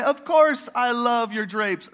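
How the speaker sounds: mock hostess sweetness; fake-cheery small talk. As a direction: gush like a polite dinner guest. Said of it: "Laugh, laugh".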